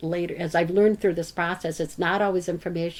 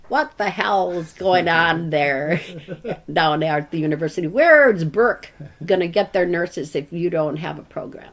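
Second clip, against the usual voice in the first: put-on gruff old man voice; 5 dB louder than usual. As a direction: bark it like a cranky old banker on the phone. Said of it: "This gruff old voice on the phone".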